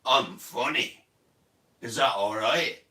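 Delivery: the grown-up self, dropped low on I'm funny; deep new-me I'm funny. Retold or imitated. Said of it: "But now I'm like".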